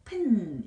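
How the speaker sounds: "핀" as one blended word; short vowel in "핀", lingering on the final n; blended pronunciation. Shown as a demonstration. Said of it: "이렇게 발음이 됩니다". ("핀"을 한 번에 이어서)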